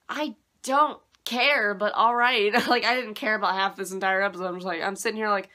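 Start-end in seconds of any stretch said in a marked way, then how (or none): 0.1-2.5 drawn-out indifferent. Retold or imitated. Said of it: "And I'm just like".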